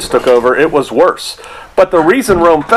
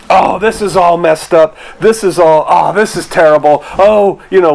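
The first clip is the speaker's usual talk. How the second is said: mock lament. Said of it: "whenever I start thinking this way".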